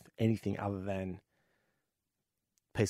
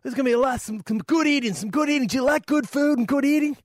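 cowboy voice; 5 dB louder than usual. Acted. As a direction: play the friendly cowboy neighbour big. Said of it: "He goes".

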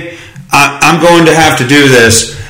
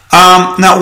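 normal talking voice

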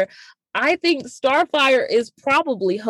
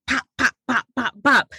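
punching sounds; 4 semitones higher than usual. Retold or imitated. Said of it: "giving him that work".

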